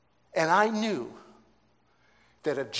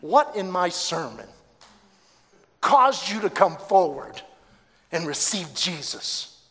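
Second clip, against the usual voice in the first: louder, insistent repeat of the question; emphatic question; 4 semitones higher, 9 dB louder than usual. Retold or imitated. Preacher asks a new convert what moved him, emphatic. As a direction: press the question home forcefully.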